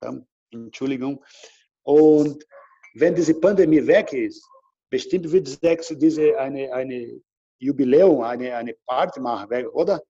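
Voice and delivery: rusty German with Brazilian accent; non-native German, Brazilian accent. Real, not acted. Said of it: "mein Deutsch ist schon ein bisschen weg".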